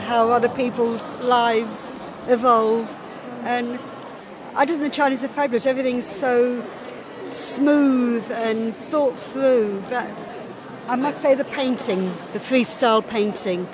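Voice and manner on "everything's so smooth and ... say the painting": ordinary talk, nothing marked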